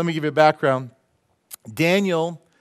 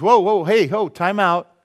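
urgent call; 3 semitones higher, 5 dB louder than usual. Retold or imitated. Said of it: "Daniel goes".

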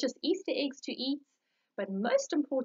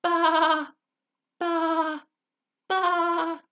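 loud, high sheep baa; sheep bleating; 6 semitones higher, 6 dB louder, much slower than usual. Acted. Sheep singing for his friends, loud bleat. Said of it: "I'm going to sing for my friends".

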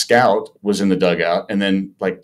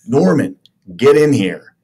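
louder, drawn-out call of a name; retold summons; 5 semitones higher, 4 dB louder, slower than usual. Manager calling a player into his office, retold stern summons. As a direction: imitate a boss calling someone in, slowly.

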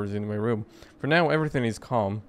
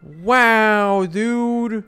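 high, loud amazed yell; real wow dude; stunned wow; 9 semitones higher, 8 dB louder than usual. Real, not acted. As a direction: react in disbelief. Reacting to ending.

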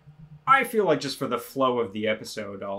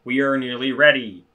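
flat robot translator voice; 5 dB louder than usual. Acted. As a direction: read it like a robot. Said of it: "the robot voice for the translator".

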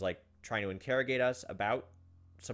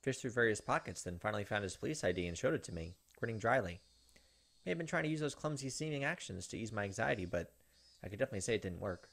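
tense story narration. Acted. Streamer reading Higurashi narration to viewers, tense narration. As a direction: narrate it like a creeping horror story. Reads visual novel narration.

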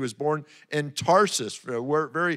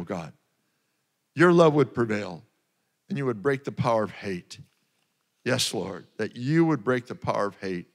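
earnest prayer. Real, not acted. Pastor prays aloud for the world, earnest intercession. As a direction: plead with God in a public prayer.

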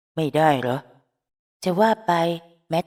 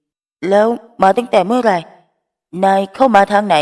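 angry demand; 4 semitones higher, 8 dB louder than usual. Acted. Phrom angrily demands answers.

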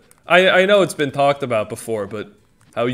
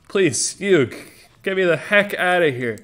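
lightly voiced anime sidekick pleading; a hint of panicked cartoon begging; Joey Wheeler; 5 semitones higher than usual. Sidekick begging his friend for rescue, mildly desperate. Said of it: "my impression of Joey Wheeler".

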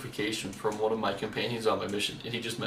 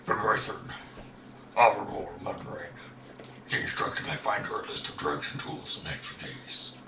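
a lightly lowered voice reading a diary; deepest voice. Pretend. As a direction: read the notes in your deepest voice. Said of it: "deepest voice you can".

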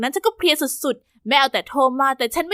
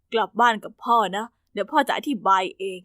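gentle father; 5 semitones lower than usual. Acted. Father brings daughter home.

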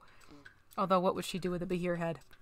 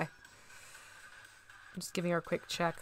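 whisper; 10 dB quieter, slower than usual. Real, not acted. Murmuring while painting.

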